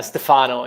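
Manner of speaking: "Stefano" as others call him, ste-FA-no; common mispronunciation. Shown as a demonstration. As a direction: say "Stefano" with the middle syllable stressed. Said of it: "I'm used to get called by".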